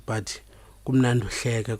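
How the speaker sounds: usual speaking voice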